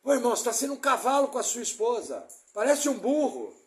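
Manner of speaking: a touch of a rude pastor scolding, fast; mock harsh rebuke. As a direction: snap at the brother, half-acted. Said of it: "Tá errado". (pastor grosseiro repreendendo o irmão com rispidez)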